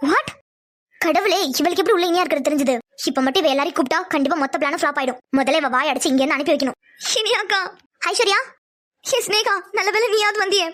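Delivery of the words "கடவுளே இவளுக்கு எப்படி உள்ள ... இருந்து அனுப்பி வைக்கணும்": low-pitched private scheming; scheming inner monologue. Acted. Girl plotting to silence Aishu before others hear, scheming low to herself. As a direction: think it through to yourself, low in pitch.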